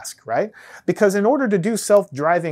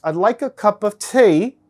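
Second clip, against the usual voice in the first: hammed-up British accent, higher and slower; bad British accent; 4 semitones higher, 4 dB louder, slower than usual. Shown as a demonstration. Lecturer repeating his British accent to show the difference. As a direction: stretch it out in a mock British accent. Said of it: "But you see the difference".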